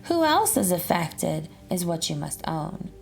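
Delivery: lilting, sing-song rhyming read-aloud; reading a picture book aloud. Acted. Teacher reading a rhyming book to children, sing-song storytelling. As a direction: read the rhymes to a class of children, bouncing along.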